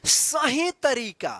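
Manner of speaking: slow, weighted सही; सही तरीका stretched and stressed; stress on right way. Shown as a demonstration. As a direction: draw out सही slowly. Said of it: "अंग्रेजी पढ़ने का सही तरीका".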